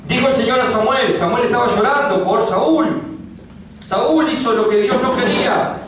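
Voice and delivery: high, ringing preacher voice; full-force preaching. Acted. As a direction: proclaim God's verdict from the pulpit. Preaching Samuel story loudly.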